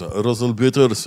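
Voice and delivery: put-on slow name call in Arab accent; mock Arab accent. Arab official looking for the comedian, mock accent. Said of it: "stereotypical Arab-looking guy".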